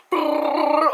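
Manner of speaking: high trilled brrr; mock gunfire trill, high and rolled; imitated rattling noise.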